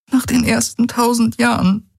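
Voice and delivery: lightly voiced heroine, sorrowful; Ki's voice, sad. A narrator's reading.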